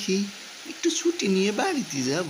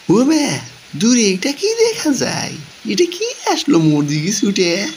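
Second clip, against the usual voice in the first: startled; 9 dB louder than usual. Acted. Man at the window sees a figure rushing toward him, startled. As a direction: call out at something rushing near.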